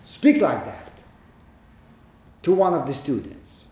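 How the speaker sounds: acted affront, leaning hard on the first words; indignant. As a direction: voice an offended onlooker's protest. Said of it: "we think".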